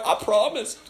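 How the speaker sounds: high-pitched pleading with laughter; mock desperate plea. Preacher praying over the man he promised, mock desperate. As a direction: beg as if in comic panic.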